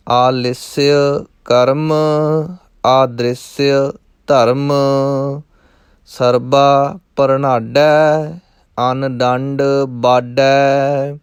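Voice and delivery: slow, measured verse chanting; slow recitation. Shown as a demonstration. Teacher chants the last verse slowly. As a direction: draw out each word.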